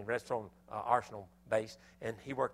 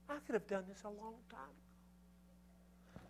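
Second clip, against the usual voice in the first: rueful groan; 9 semitones higher, 11 dB quieter, slower than usual. Retold or imitated. Realizing he wasted effort.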